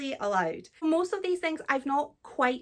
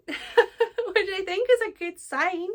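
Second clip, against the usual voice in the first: real laugh running through the words, slower and louder; 6 semitones higher, 4 dB louder, slower than usual. Real, not acted. Amused at finishing the book so fast, laughing.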